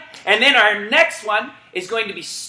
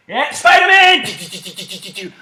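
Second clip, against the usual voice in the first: laughing call. Real, not acted. Coach calling Spider-Man mid-run: laughing call. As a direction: laugh through the webs.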